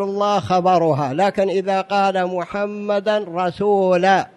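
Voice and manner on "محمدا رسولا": "محمدا رسولا" with the an endings stressed; both words in the accusative. Shown as a demonstration. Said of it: "ما جاء بالخبر".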